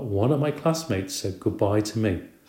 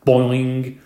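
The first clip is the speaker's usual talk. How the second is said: twanging boing; 3 semitones higher, 5 dB louder than usual. A narrator's reading. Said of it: "distinctive twanging sound".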